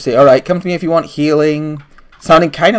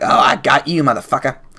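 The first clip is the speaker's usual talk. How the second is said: gleeful, happily cackling hag voice. Voicing a night hag who cackles happily at a player: cackling happily as the hag. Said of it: "cackles happily. She's like".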